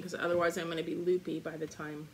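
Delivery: eating while talking; mouth full. Real, not acted. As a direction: talk through a mouthful. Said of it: "I have to keep munching".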